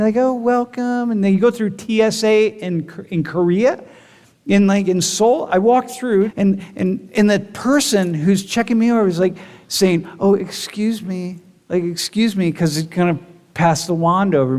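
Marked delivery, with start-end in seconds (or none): 0.2-1.1 high, gentle, friendly welcome; kind welcome. Retold or imitated. Korean agent welcoming traveler, kind and gentle. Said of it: "everything is so kind". 10.2-12.5 polite apology. Retold or imitated. Korean security agent before wanding traveler, gentle apology. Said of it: "Very kind, very calm".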